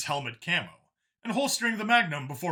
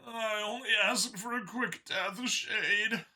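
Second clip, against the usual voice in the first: growled; 8 semitones higher, slower than usual. A narrator's reading. Xeno growling at Shade, mild bitter growl. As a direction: grumble it bitterly. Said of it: "the Xeno growled".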